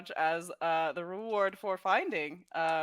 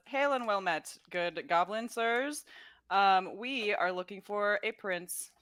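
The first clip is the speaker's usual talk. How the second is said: courteous bard's hail, slightly raised pitch; confident greeting. Acted. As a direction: greet them grandly, slowing on the title. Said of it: "with all the confidence in the world".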